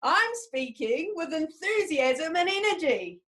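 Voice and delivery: slow, proud declaration, arms wide; shout it to the world. Shown as a demonstration. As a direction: belt it out to the world with energy. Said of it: "shout it to the world".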